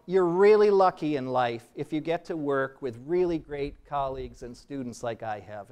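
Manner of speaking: sincere. Real, not acted. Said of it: "I do mean that part is sincere".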